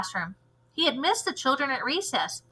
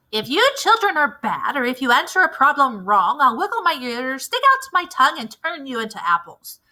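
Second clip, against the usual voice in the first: raised, menacing mean-teacher voice; stern teacher threat; 2 semitones higher, 4 dB louder than usual. Acted. Mean teacher warning her class, menacing. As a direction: threaten the children like a wicked teacher.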